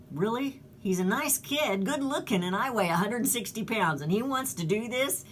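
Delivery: imitating high-pitched disbelief; incredulous. Injured hiker doubts her young rescuer, retold with incredulity.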